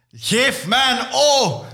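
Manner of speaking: high, slow cheerleader call; rallying call. Acted. Yoshi calls to his followers, high slow call. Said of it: "En ik roep".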